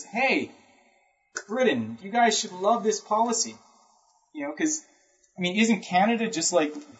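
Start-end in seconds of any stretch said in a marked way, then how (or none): 0.0-3.6 higher, lightly voiced politician pitching a deal; a light, salesy pitch to Britain; Buchanan addressing Britain. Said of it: "So Buchanan says".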